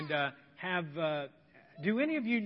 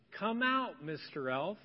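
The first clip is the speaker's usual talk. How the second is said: calling demo; slower than usual. Shown as a demonstration. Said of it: "So as loud as you can".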